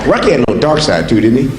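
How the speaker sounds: low slurred Rocky voice; Stallone impression. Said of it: "Stallone impression".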